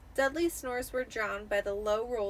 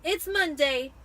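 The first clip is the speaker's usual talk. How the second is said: put-on high, louder whiny boy; sniveling Dudley; 6 semitones higher, 8 dB louder, slower than usual. A narrator's reading. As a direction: whine it to his mother. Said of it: "Dudley sniveled".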